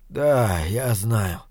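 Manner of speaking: low gurgling, dying man; words choking on gurgle. Acted. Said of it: "Слова его перемешивались с клокотанием". (с клокотанием в горле)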